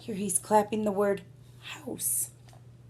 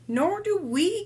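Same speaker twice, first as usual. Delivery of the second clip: chorused; 8 semitones higher than usual. Acted. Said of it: "chorused the knights".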